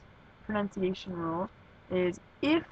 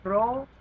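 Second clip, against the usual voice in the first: "rojo" with RO louder and longer; stress on first syllable of rojo; 3 semitones higher, 3 dB louder than usual. Shown as a demonstration. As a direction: punch the RO in "rojo". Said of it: "the emphasis goes on the second to last syllable".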